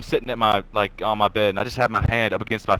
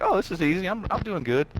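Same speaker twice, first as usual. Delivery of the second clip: higher-pitched, pleased-with-yourself quote; retold confidence; 7 semitones higher, 4 dB quieter than usual. Boy telling himself the riding is going fine, mock confident. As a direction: imitate your overconfident younger self. Acts his confident self on bike.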